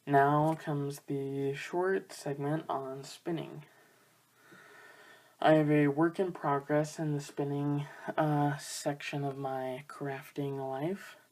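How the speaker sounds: out of breath, panting between phrases; winded from running up the stairs. Real, not acted. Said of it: "I'm out of breath 'cause I just ran up and down the stairs".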